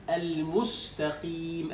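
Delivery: "المستقيم" with a clear rounded u on the first م, slow; full damma on meem. Shown as a demonstration. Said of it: "الآن الضمة في الميم". (ضمة الميم واضحة في "المستقيم")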